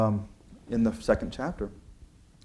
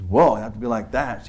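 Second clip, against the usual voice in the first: a louder, stung retort; taken aback; 6 dB louder than usual. Retold or imitated. Coworker stung by Ralph's rudeness, loud and taken aback. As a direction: push back at the rude reply.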